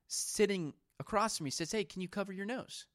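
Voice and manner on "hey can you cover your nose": soft, gentle polite ask; kindly request. Retold or imitated. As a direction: imitate a woman asking kindly, softly. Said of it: "She said it very kindly".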